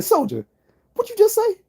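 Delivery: high, loud mocking bark; drill sergeant yell. Male drill sergeant overhears soldier's joke, high mock yell. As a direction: catch the soldier out, yelling.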